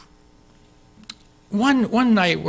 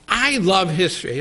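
ordinary delivery

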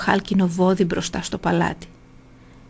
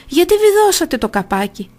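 higher, louder startled cry; alarmed shout; 9 semitones higher, 4 dB louder than usual. A narrator's reading. Phalaris shut inside the bull, shouting up in alarm. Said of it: "φώναξε ο Φάλαρης".

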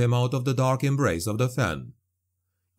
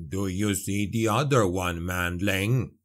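low, rumbling dwarf voice; 4 semitones lower than usual. A narrator's reading. Dwarf asking Andre about another zombie, low rumble. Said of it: "he rumbled".

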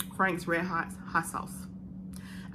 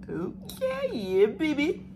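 high squeal; 5 semitones higher, much slower than usual. Retold or imitated. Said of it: "I'm like".

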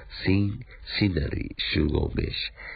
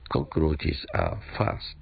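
slow model sentence; 2 semitones lower, much slower than usual. Shown as a demonstration. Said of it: "teacher models the phrase slowly".

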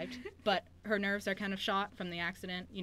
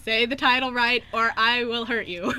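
raised, higher playful menace; hammed-up threat to get the title right; louder joking threat, slowed on the warning; mock threat; 5 semitones higher, 11 dB louder than usual. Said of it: "That is the meanest thing".

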